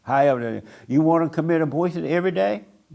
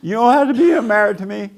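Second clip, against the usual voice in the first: higher and louder, breezy dismissal; mock defiant brush-off; 4 semitones higher, 5 dB louder than usual. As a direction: wave them off without a care. Acted dismissive goodbye to spouse.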